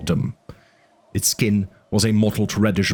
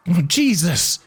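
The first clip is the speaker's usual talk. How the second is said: alarmed Eddie; 9 semitones higher, slower than usual. A narrator's reading. Eddie's voice in audiobook.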